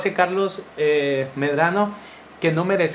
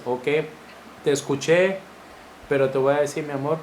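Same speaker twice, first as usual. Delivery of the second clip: lower, softer, calm and firm reply; calm husband; 4 semitones lower, 4 dB quieter than usual. Retold or imitated. Husband answering his shouting wife, low, soft and steady. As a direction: settle her down without raising your voice.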